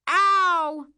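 high, loud yelp of pain; pained wail. A narrator's reading. Canoe smacks narrator on the calf, pained wail. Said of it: "I wail".

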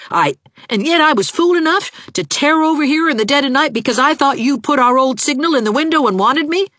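very high, loud angry proposal; exasperated outburst. A narrator's reading. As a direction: rant heatedly, then propose as a challenge. Angry proposal mid-quarrel.

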